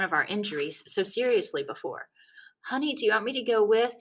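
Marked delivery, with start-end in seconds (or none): 2.7-3.9 dad voice. A narrator's reading. Dad offering.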